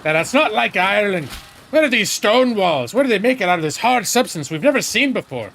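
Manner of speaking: mock Irish accent, barely there; bad Irish accent. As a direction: play a raider in a poor Irish accent. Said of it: "that's not a real Irish accent".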